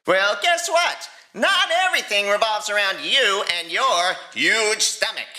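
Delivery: rising anger, firing back at the dragon; raising his voice. Acted. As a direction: snap it out, voice climbing. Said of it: "Hiccup's voice was raising now".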